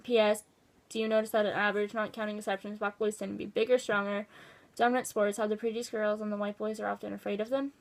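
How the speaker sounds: even, matter-of-fact read-aloud; reading a letter aloud. Acted. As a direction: read out someone's written account, plainly. Reads out letter's postscript.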